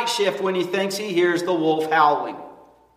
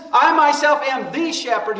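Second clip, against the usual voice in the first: "I myself am the shepherd" pitched up, stressing "I" and "the"; emphatic quote; 4 semitones higher than usual. Acted. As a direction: punch "I myself" and "the". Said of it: "but it's very emphatic".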